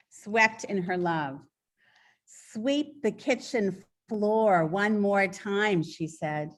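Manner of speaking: slow, measured poetry reading; slow recital with spaced phrases; poem reading. Acted. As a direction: read your own poem aloud, unhurried, lingering on each line. Reads own poem aloud.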